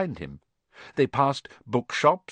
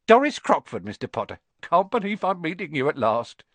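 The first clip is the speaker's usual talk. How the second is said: put-on higher, eager old-woman admirer; gushing fan; 4 semitones higher than usual. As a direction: gush at meeting a celebrity.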